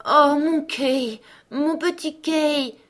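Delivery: sighing. Acted. Gerda longing for her lost Kay, slow sighing. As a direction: sigh out his name with longing. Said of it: "soupira Gerda".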